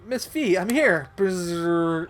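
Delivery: robot announcing itself with a buzz; game robot voice. Acted. Robot calling to Miss Fee on arrival, put-on robot voice.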